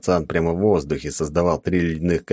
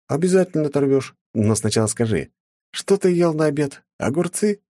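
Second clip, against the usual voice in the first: насмешливо; 10 semitones higher than usual. A narrator's reading. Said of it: "спросил я".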